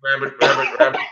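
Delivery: high sing-song call to a rabbit. Pretend. Man calling his pet rabbit, high sing-song. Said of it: "I can do a rabbit call".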